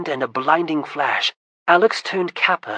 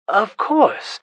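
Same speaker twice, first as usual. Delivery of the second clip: understanding; 6 semitones higher, 5 dB louder than usual. Acted. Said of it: "said Alex understandingly".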